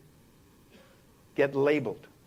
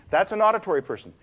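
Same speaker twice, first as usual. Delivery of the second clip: musical auditory voice; 3 semitones higher, 3 dB louder, faster than usual. Shown as a demonstration. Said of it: "speak in a very musical way".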